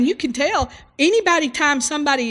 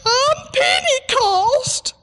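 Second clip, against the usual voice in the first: much higher, slow, tearful mock voice; retold crying woman; much slower than usual. Woman in the wheelchair answers the evangelist, mock tearful. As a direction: play her wounded and weepy, drawn out. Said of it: "she started crying".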